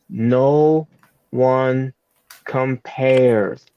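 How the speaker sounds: stiff imitation, word by word with pauses; robotic promo voice. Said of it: "she sounds like a robot".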